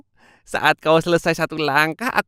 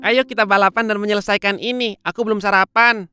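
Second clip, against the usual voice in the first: arrogant hare; 3 semitones lower than usual. Acted. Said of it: "dengan gaya angkuh".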